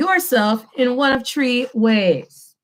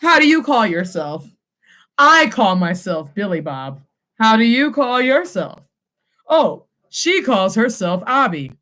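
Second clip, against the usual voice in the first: mock literal English. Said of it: "we don't walk around in English saying".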